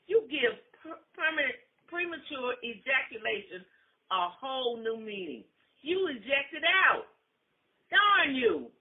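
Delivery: loud, rising scolding. Acted. Wife scolding her husband, loud angry scolding. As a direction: scold him.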